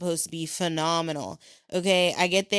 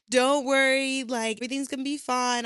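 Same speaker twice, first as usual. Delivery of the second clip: reassuring host; 7 semitones higher than usual. Retold or imitated.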